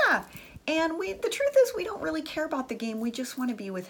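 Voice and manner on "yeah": eager yes. Retold or imitated. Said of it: "We're like".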